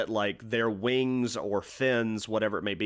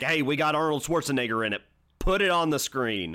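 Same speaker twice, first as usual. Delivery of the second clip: brash fast-talking movie producer; Hollywood producer; 4 semitones higher than usual. Retold or imitated. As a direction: pitch it like a slick studio boss. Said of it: "that was my impression of a Hollywood producer".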